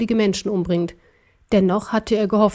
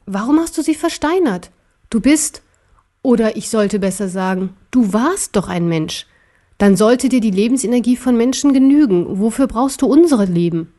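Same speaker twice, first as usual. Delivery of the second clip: indignant little bear; 3 dB louder than usual. Acted. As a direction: challenge the tyrant in a raised voice. (empörter kleiner Bär, höhere Stimme)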